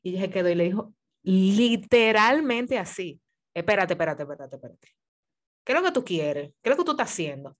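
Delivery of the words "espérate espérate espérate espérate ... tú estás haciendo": curt, demanding snap; sharp barking tone. Retold or imitated. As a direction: bark it at him, impatient. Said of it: "Así, en ese tono". (ella le ladra al pretendiente con tono cortante)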